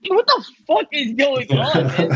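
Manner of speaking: high-pitched mock disbelief; incredulous. Rider reacts to a dad being too nice, incredulous. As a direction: replay being baffled, voice pitched right up. His amazed reaction to niceness, retold.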